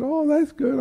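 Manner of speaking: high-pitched childlike delight, acted out; imitating a little kid's enthusiasm; eager child. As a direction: react like a thrilled five-year-old. Retelling himself as eager child.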